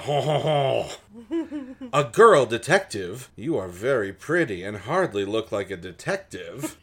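slow mock belly laugh, then patronizing; hammed-up condescension; condescending chuckle. Henry scoffing at a girl detective, condescending chuckle.

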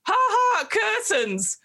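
high mocking ha ha, then a jeer; sidekick goon cackle. Sidekick goon echoing his boss to mock Wally, high cackling jeer. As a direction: echo the boss with a nasty laugh. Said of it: "Rourke sort of goes".

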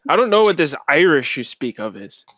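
in-character, shaky attempt at Irish; bad Irish accent. Mountain dweller denying knowledge of Irish, bad Irish accent. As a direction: keep up a poor Irish accent. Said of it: "He's attempting a really shitty Irish accent".

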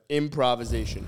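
improvisation said with a small lisp on the s; lisping through the s of improvisation. Shown as a demonstration. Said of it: "I have a lisp, small lisp".

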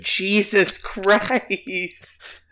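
breathy unvoiced Jesus Christ; whispered shock; whispered exclamation. Real, not acted. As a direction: gasp it under your breath in disbelief. Reacting to smuggling joke.

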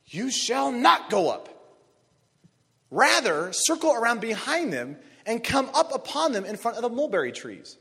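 lightly voiced God, slow and loud at first. Preacher voicing God's command to David, slow and solemn. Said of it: "And the Lord said".

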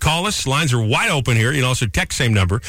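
upbeat radio host call-in read; radio contest promo. Acted. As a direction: pitch the phone lines like a DJ.

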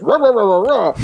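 mock rage growl. Host acting out the wife's reactive inner voice, mock roaring. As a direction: blurt wordless fury like an inner beast. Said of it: "You're just".

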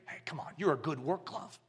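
a hint of a sly whispering devil; Satan tempting. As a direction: lure the glove away gently. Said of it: "Can't you see Satan?".

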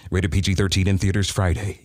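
a light movie trailer read; hint of a trailer announcer. Shown as a demonstration. Coach demoing a movie trailer line, lightly voiced. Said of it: "movie trailer and you're going".

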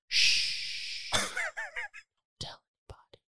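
hushed secret whisper. Retold or imitated. Inmate hides paper from guard, whispering. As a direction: breathe it like a secret. Puts his finger to his lips.

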